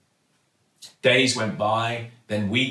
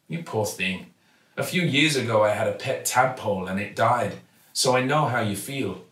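kindly shopkeeper. Acted. Kindly newsagent Raj speaks.

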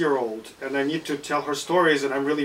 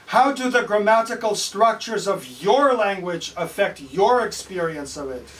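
parrot voice; 6 semitones higher, 4 dB louder than usual. Acted. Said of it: "says the parrot".

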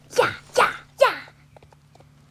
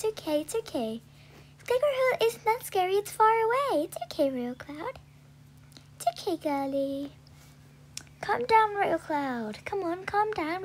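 soothing; 5 semitones higher than usual. Real, not acted. Soothing a nervous horse.

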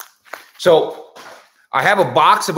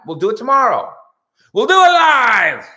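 mock shout; 10 semitones higher, 6 dB louder than usual. Host hamming up a famous angry rant, shouting. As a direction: bellow it like a famous on-air meltdown.

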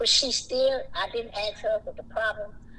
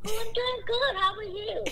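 bright high-pitched greeting exchange; cheery greeting; 10 semitones higher than usual. Retold or imitated. Greeting a stranger at the bus bench, high and cheery. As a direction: sing out a sunny good morning. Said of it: "Oh, that regular".

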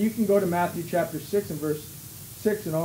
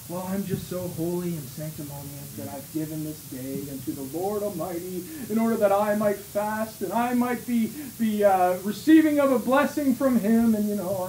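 smug hypocrite. Retold or imitated. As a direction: lay on the false modesty. Sanctimonious hypocrite voiced mockingly.

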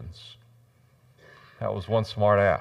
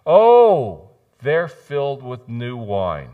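scoffing dismissal; 7 dB louder, much slower than usual. Acted. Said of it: "They said".

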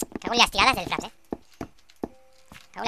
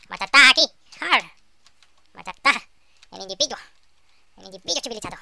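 mock Italian shout; 14 dB louder than usual. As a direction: bellow at the monster.

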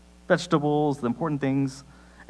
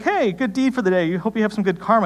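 higher-pitched chipper congratulation; a hint of a chatty cashier; lightly voiced friendly checker; 6 semitones higher than usual. Voicing the checker's friendly praise.

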